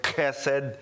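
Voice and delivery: chesed said slowly with a guttural ch; chesed in careful Hebrew. Shown as a demonstration. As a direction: drag out chesed, the ch rasped in the throat. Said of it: "with a guttural k".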